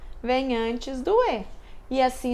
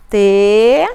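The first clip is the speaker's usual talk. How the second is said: "Telhado" called very loudly, broken syllable by syllable; syllables while jumping; 4 semitones lower, 10 dB louder than usual. Shown as a demonstration. Teacher urging pupils to jump, loud syllables. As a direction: shout the syllables of "Telhado" one by one. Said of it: "Não é pra ficar sem pular".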